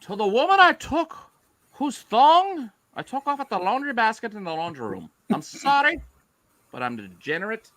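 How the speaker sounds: a hint of an Irish accent. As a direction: read it in a light Irish accent. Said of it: "Do your Irish accent".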